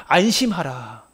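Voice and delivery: very slow, gentle reassurance; tender. Acted. Jesus calming the trembling Bartimaeus, slow and gentle. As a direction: stretch it out to calm him. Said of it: "그에게 말씀하시는 거예요".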